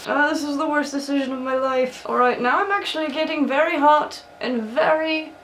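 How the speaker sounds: lightly voiced old wizard; a hint of a wise old headmaster; Dumbledore voice. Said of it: "tired of doing this voice".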